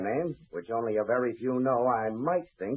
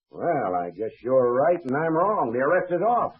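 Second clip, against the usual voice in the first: conceding. Acted. Official concedes after the proof.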